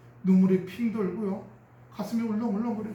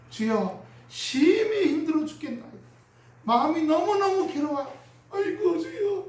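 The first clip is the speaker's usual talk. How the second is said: crying prayer; 8 semitones higher than usual. Retold or imitated. Believer in hardship wailing to God in a crying prayer. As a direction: act out a tearful, desperate prayer. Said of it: "울면서 맨날".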